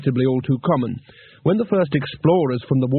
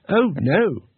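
hurried; 4 semitones higher than usual. Acted. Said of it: "said Two Flower hurriedly".

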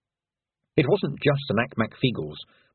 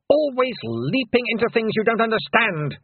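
hissed; 12 semitones higher than usual. A narrator's reading. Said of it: "she hissed".

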